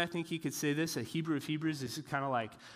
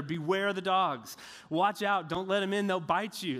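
mock sign warning; 4 semitones higher, 3 dB louder than usual. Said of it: "this big sign he's plastering everywhere".

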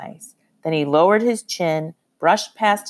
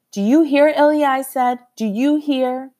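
urgent; 7 semitones higher than usual. A narrator's reading. Girl urges boy to hear uncle.

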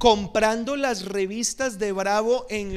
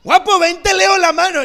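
calling out loud and high, a gypsy palm reader; loud gypsy hawker; 9 semitones higher, 11 dB louder than usual. Retold or imitated. Gypsy woman hailing the pastor on the street, loud and high. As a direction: hail the handsome passerby, louder and higher.

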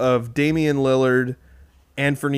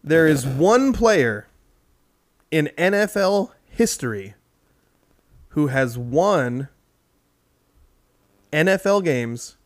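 quiz host. Acted. Quiz question read slowly.

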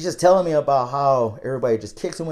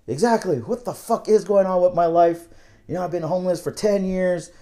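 higher-pitched retold complaint; imitated rant; 4 semitones higher than usual. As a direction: imitate a fed-up man venting, mildly heated. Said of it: "he was just ranting".

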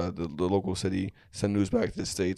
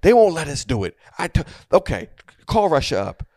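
mock exasperated rant, high and loud; annoyed; 7 semitones higher, 6 dB louder than usual. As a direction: act out an irritated leader losing patience. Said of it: "you can hear him getting annoyed".

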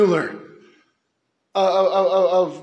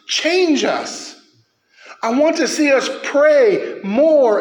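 impassioned preaching; 4 semitones higher, slower than usual. Real, not acted. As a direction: plead for revival with fire. Passionate plea for revival.

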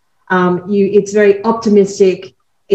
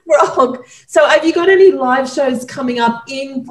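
laughing; 5 semitones higher than usual. Real, not acted. Host still laughing at frog.

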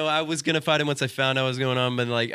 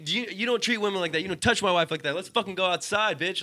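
heated, high-pitched telling-off; worked-up retold confrontation; re-enacted angry challenge; 9 semitones higher than usual. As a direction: replay yourself calling him out to fight. Acted quarrel, challenge to fight.

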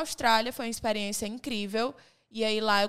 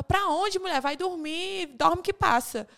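annoyed mother; 5 semitones higher, slower than usual. Retold or imitated. Mother annoyed, woken at night.

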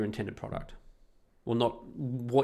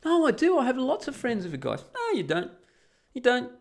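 retold argument; 12 semitones higher than usual.

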